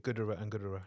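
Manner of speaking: careful, slowed-down delivery; said slowly. Real, not acted. Co-host savouring a made-up word, said slowly. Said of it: "I had to say it really slowly".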